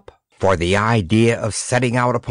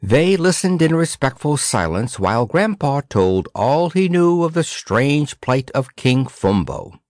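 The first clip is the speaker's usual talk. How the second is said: ordinary delivery, nothing marked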